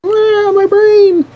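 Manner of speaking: high, slow pained cry. Acted. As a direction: cry out as the head hurts. Character in pain from voice.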